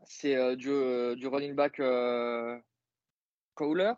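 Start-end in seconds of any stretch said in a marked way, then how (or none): 3.5-3.9 the name Cowler said the English way, KOW-ler; English accent. Shown as a demonstration. Naming the Berlin running back, in an English accent. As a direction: say Cowler like an English commentator would. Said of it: "Je le dis avec l'accent anglais".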